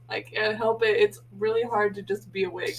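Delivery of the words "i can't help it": laughing. Real, not acted. Laughing after yawn.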